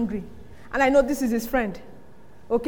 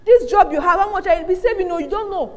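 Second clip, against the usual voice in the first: mock warning; 4 semitones higher, 5 dB louder than usual. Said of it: "people that talk like that".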